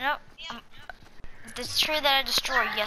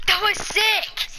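thrilled, slowed exclamation; excited; 10 semitones higher, 4 dB louder, slower than usual. Real, not acted. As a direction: cheer it, drawn out. Friend lands a big jump.

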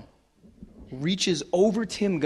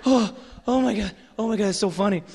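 higher, imitating someone doubled over laughing; mock laughing fit; 4 semitones higher than usual. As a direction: play a man cracking up. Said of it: "clutching his stomach".

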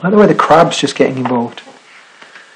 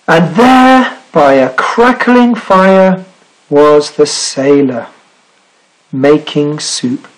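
story narration; 2 semitones higher, much slower than usual. Acted. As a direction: unveil the surprise phrase by phrase. Reads picture book aloud.

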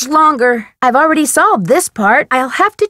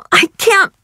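high, slow, strained gasp for air; suffocating panic; 8 semitones higher, slower than usual. Acted. Trapped character running out of air, suffocating panic. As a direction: choke it out, desperate for breath.

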